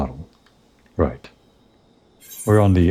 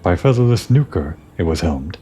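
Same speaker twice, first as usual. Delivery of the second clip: Ixal birdman. Acted. Ixal reporting the airship attack, lightly voiced bird creature. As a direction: chatter it out like a bird tribesman.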